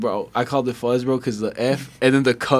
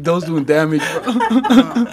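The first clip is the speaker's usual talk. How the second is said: laughing through the words; chuckling it out; 3 semitones higher, much slower than usual. Retold or imitated. Retold remark, laughing.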